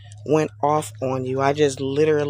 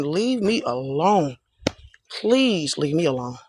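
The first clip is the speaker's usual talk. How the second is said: imitated begging; slower than usual. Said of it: "And I be begging them".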